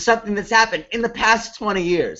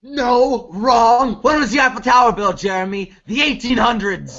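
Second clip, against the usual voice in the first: exasperated teacher; 4 semitones higher than usual. Acted. Teacher scolding student's joke.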